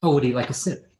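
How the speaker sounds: mother judging her daughter's looks; snooty mother. Acted. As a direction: lift the pitch and sneer it sweetly. Tipsy mother offers wine.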